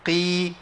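قي thinner, slightly lighter; qaf with kasra. Shown as a demonstration. Teacher demonstrating the kasra qaf. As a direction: soften the vowel on قي. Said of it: "القاف المكسوره".

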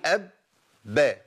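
أب with no bounce, straight into با; held lip closure. Shown as a demonstration. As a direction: keep the lips shut through أب into با. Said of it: "ما بسيبش المخرج".

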